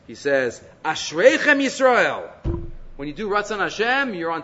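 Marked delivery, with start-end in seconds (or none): 0.8-2.3 exclaiming. Retold or imitated. Rabbi telling his students, a slow retold exclamation. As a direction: declare it like a marvel. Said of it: "Rabbi Yochanan ben Zakkai exclaims".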